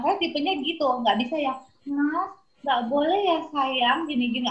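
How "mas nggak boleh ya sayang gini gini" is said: mock-tender scolding; gentle mother. Mother trying a gentle tone with her son. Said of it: "nggak bisa kita ngomong lembut".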